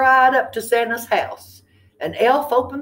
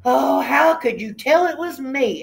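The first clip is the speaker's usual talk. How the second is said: surprised turkey; 6 semitones higher than usual. A narrator's reading. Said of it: "asked Turkey".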